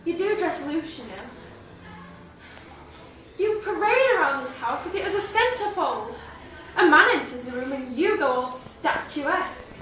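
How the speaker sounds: Patricia. Acted. Student performing Patricia's monologue for a drama teacher, in character. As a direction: needle her with measured, emphatic stage delivery. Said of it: "I'll be performing in the character of Patricia".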